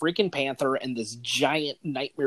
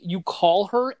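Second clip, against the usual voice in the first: normal talking voice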